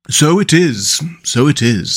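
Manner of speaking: mildly hearty agreement; a touch of heartiness. A narrator's reading. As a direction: agree readily as the mole. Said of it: "said the mole with great heartiness".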